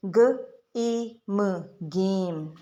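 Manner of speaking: "ग, ए, म" sounded apart, then joined into "गेम"; teacher sounding out "गेम"; blending demo. Shown as a demonstration. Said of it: "तो ये ए की sound निकाल देगा".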